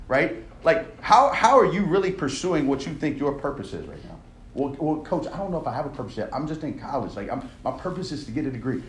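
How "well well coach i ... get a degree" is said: softer, fast excuse-making student; lightly voiced unsure college kid; hesitant student.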